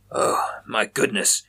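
breathless whisper of shock. A narrator's reading. Chaplin hearing his friends were taken, whispering in shock. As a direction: let it slip out as a stunned whisper.

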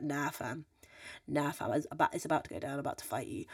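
low, muted threat, squaring up; understated, low-pitched confrontational mutter; getting eggy. Retold or imitated. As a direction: imitate quietly spoiling for a fight. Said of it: "you start getting eggy".

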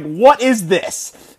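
each word drawn out slowly in disbelief; slow, baffled retelling of the ketchup shock; slow incredulous question. Retold or imitated. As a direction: stretch it out, baffled. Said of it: "So I'm like".

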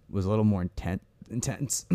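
words catching in a choked throat; choking. Real, not acted. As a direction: talk while choking on a drink. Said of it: "choking there".

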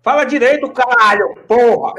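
high, loud mock outburst; mock angry. Joking at a friend over the accent, mock angry.

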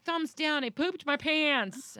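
put-on high, slow, sulky child voice; a lightly voiced sad four-year-old; glum little girl. Daughter answering her mother at home, glum child voice.

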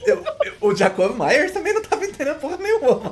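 high, laughing through the words. Real, not acted. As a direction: say it while cracking up. Laughing joke about the player. (falando rindo)

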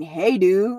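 disbelieving repeat of "Hey, dude" with a rising question; incredulous echo. Retold or imitated. The boyfriend repeating her casual greeting, incredulous. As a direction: throw her words back in disbelief. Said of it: "What the fuck do you mean".

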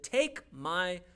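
slow, spaced-out plea; acted weary plea to God; dramatic surrender. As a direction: give each word its own weight. Elijah asks God to end it.

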